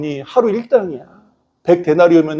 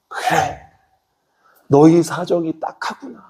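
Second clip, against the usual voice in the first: merciful king; slower than usual. Acted. King takes pity on debtor.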